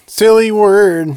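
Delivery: funny drawn-out reading. Real, not acted. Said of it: "The way you said that".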